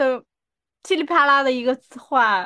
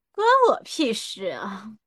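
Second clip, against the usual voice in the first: cold, slow evil lady boss; devil female boss; 4 semitones lower than usual. Shown as a demonstration. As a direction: dismiss them like a cruel boss. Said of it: "你这是什么那种恶魔女上司". (恶魔女上司的语气)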